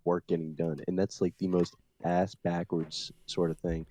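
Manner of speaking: speech slurred by a retainer; talking with a retainer. Real, not acted. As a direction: talk around a retainer in your mouth. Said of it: "I'm talking a little weird 'cause I had to put my retainer in".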